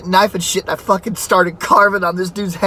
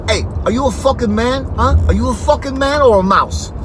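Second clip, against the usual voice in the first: raised, goading dare; macho taunt; 6 semitones higher than usual. Retold or imitated. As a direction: needle him like a drunk tough guy. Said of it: "he's like".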